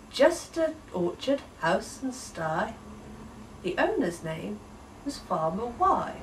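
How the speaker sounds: gentle rhyming storybook read-aloud; story narration. A narrator's reading. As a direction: read it like a bedtime story in verse.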